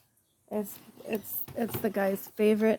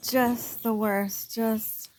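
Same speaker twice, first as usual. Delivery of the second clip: weary drawn-out complaint; much slower than usual. Real, not acted. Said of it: "my first couple of weeks was just miserable".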